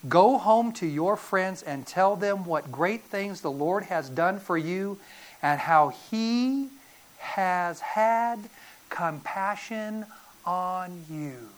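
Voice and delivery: slow, measured, softening to the end; tender solemn reading. Acted. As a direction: let each final word land gently. Reads Jesus's words with weight.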